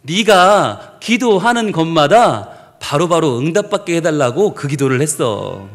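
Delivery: low, slow, deliberate reveal; acted divine voice, low and unhurried; voice of God. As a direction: explain as God, weighing each phrase. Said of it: "하나님 그러시는 거예요".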